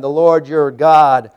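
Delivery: slow, loud weight on "Lord your God"; emphatic stress. Real, not acted. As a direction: lean hard on God at the end. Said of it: "the emphasis".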